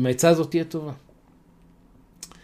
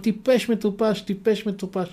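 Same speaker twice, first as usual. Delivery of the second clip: mocking taunt; 7 semitones higher than usual. A narrator's reading. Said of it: "מתגלגלת שם מצחוק".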